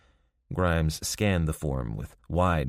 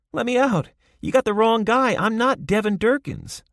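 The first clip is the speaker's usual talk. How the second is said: much higher and louder, yelling from a cell; calling out; 7 dB louder than usual. A narrator's reading. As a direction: shout through the bars to be heard.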